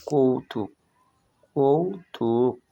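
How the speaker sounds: slow, drawn-out কৌতুক, each syllable stretched; slow demo word. Shown as a demonstration. Teacher models কৌতুক slowly for pupils, drawn out. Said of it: "তাই এর সম্পূর্ণ উচ্চারণ হবে".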